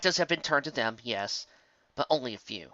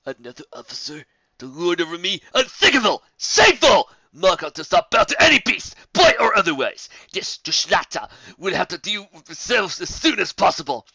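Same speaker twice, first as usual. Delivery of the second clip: building from muttered question to loud, much higher outrage; fuming; 6 semitones higher, 11 dB louder than usual. A narrator's reading. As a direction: explode with wounded pride. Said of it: "within he was fuming".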